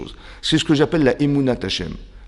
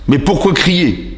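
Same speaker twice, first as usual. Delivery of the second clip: drawn-out, louder rhetorical question; slow emphatic question; 2 semitones higher, 5 dB louder, slower than usual. Acted. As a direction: pause on each word, pressing the audience.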